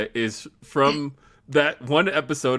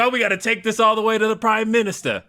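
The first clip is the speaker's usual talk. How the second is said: put-on Australian parody accent; 8 semitones higher than usual. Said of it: "an entire parody of Australia".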